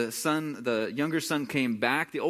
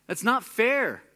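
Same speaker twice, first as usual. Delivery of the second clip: much higher and louder, indignant cry; outraged protest; 8 semitones higher, 6 dB louder than usual. Retold or imitated. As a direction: let it burst out, wronged. Brother's complaint, repeated louder.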